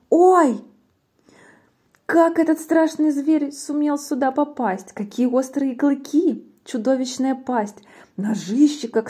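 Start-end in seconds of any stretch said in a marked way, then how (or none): 0.1-0.6 loud, high cry of shock; startled yelp. Acted. Mouse suddenly runs into the Gruffalo, startled yelp. 2.1-7.8 raised-pitch, aghast storytelling; alarmed amazement. Acted. Mouse sees the monster for real, alarmed amazement.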